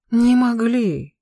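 high, loud, drawn-out astonished question; feigned surprise. A narrator's reading. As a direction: echo it back in slow mock amazement. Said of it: "снова удивился он".

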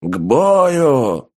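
loud battle cry; shouting orders over battle. A narrator's reading. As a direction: bark the call to arms. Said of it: "прокричал командир".

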